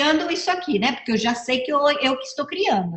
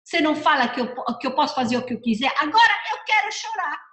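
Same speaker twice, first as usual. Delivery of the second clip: higher, lightly voiced child talking back; a hint of a defiant little girl; imitated daughter; 5 semitones higher than usual. Daughter answering her mother back, lightly voiced child. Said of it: "Ela olhou pra mim e fala".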